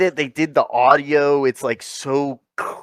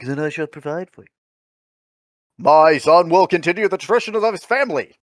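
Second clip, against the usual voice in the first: weird formal movie line; 2 semitones higher than usual. Retold or imitated. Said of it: "'Cause they talk so weird".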